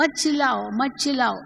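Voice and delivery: shouting at someone to stop shouting; mock shouting. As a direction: snap it out while shouting yourself. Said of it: "पर आप खुद ही चिल्ला रहे हो".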